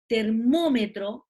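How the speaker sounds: "Termómetro" slowed, with MÓ stretched; slow teacher's "Termómetro", leaning hard on MÓ; tonic syllable demo. Shown as a demonstration. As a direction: stretch MÓ in "Termómetro" to show the stress. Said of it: "sílaba tónica".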